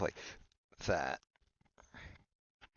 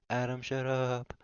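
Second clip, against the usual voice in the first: raised-voice demand; 6 semitones higher, 8 dB louder than usual. Acted. Repeating the order to Adam, raised-voice demand.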